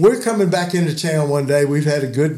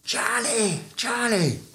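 mild mock holler; 7 semitones higher, 7 dB quieter, slower than usual. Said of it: "he starts hollering".

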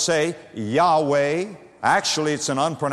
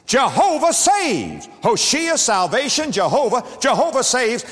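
rising fervor; 7 semitones higher than usual. Acted. Preacher building to climax.

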